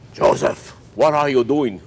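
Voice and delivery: put-on a playful, mild Jewish accent for the rabbi. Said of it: "With that, uh, Jewish accent".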